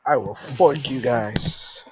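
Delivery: slow, drawn-out mock menace; mock threat. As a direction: threaten them slowly, tongue in cheek. Mock threat to weather channel.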